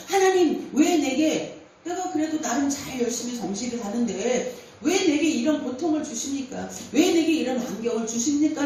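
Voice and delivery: a touch of self-pitying protest; mock complaining to God. Preacher mimicking believers who grumble at God, mildly whiny. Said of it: "원망하고 불-, 불평할 수 있는데".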